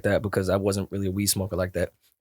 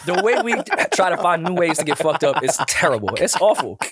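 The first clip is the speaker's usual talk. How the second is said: laughing; 5 semitones higher than usual. Real, not acted. Mocking beer pong, laughing.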